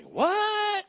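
a high, startled "What?" from the congregation; mock surprise. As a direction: squeak it like a listener caught off guard. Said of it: "And you're like".

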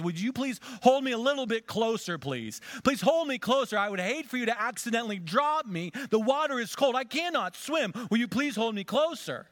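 high, loud, pleading serpent voice; the snake begging to be held closer; wheedling snake. A narrator's reading. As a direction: coax her like a sly snake. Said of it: "the snake says".

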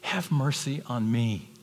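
slow, earnest plea; pleading prayer. Retold or imitated. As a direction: beg humbly. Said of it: "He said".

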